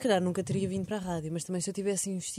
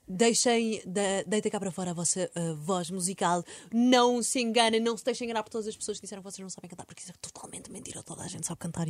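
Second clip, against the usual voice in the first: imitating a meditation guide, dropping to a whisper; soothing coach urging everyone to sing; guided meditation voice. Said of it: "Lexi dizia assim".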